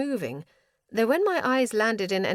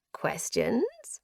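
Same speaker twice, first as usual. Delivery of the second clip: whispery rising question, higher; mad prisoner, intrigued; 4 semitones higher than usual. A narrator's reading. Prisoner answers his questioners, madly intrigued. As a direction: echo it in an eerie rising whisper.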